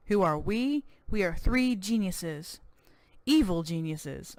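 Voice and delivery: slow, gloating villain voice; smug evil geniuses. Acted. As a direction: drag out the evil boast.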